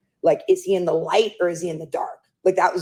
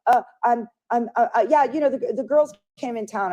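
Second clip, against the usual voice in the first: high, giggly, stumbling over words; nervous laughing stammer; 7 semitones higher than usual. Retold or imitated. Friend dodging the caller's question, nervously laughing.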